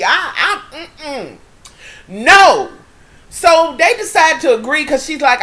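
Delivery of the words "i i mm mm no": breaking into giggles; laughing. Real, not acted. Recapping the show, giggling helplessly at the mess. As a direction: laugh it off in disbelief.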